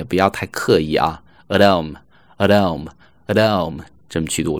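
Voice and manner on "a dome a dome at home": light, unforced "a dome"; light linked form. Shown as a demonstration. Teacher telling learners not to overdo it, light linked "a dome". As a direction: run at home together as a casual uh-DOME. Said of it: "但读轻一些，不要太刻意".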